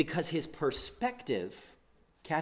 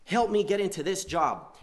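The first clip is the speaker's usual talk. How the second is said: pushy rebel praying a bit louder; demanding prayer; 5 semitones higher, 5 dB louder, slower than usual. Retold or imitated. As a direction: demand it of God. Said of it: "More like".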